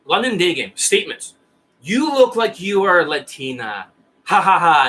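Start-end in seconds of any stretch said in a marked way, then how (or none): 1.8-3.9 slow, stiff opening line, mildly acted; lightly voiced awkward student reading a statement; mock pickup line said slow and stiff; zombie-style student opener. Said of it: "Zombie sounds like this". 4.2-4.9 awkward student laughing at his own line; forced laugh. Retold or imitated. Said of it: "Zombie sounds like this".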